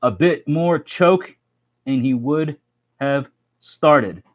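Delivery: Aussie accent. Shown as a demonstration. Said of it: "Unknown Survivor posted one is".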